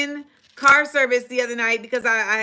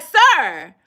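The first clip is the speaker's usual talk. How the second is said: stern demand; 3 semitones higher, 3 dB louder than usual. Retold or imitated. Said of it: "I'm like".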